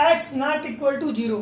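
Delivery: each word spaced out slowly; slow dictation. Shown as a demonstration. Teacher dictating the condition slowly to students. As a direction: read the condition out slowly for the class to copy.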